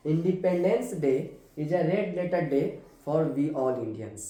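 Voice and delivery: very slow, each word spaced for writing down; slow dictation. Shown as a demonstration. Teacher dictating an example to students, very slow. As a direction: dictate it slowly so students can copy. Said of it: "teacher dictating example sentence".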